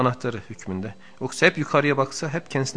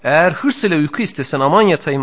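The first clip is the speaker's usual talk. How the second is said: louder, higher, measured reading of a sacred text; formal text reading; 4 semitones higher, 8 dB louder than usual. Acted. Teacher reading the book to his students, in a raised, formal reading voice. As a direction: recite the passage with weight. Reads the classic text aloud.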